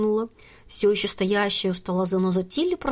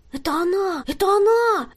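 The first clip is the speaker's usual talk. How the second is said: high, rising to a louder excited squeal; girl babbling over her grandmother, squealing higher and louder; excited babble; 11 semitones higher, 4 dB louder than usual. A narrator's reading. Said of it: "залепетала Тереза".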